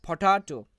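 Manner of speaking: teaching demo of পটাটো, second syllable stressed. Shown as a demonstration. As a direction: punch the টা in পটাটো. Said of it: "টি এর উপর জোর দেওয়া হয়".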